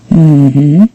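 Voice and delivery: absently murmured agreement with a rise; absent-minded. A narrator's reading. Answering Ned while surveying the shop for typewriters, absently. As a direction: agree with your mind elsewhere. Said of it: "I replied absently".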